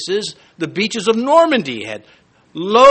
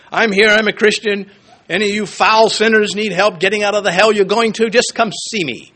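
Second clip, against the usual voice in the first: mock brash announcement; a light send-up of a pushy zealot, pushed and unbroken; obnoxious; 3 semitones higher, 4 dB louder than usual. New hire announcing their faith at work, obnoxious. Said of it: "it doesn't mean obnoxious".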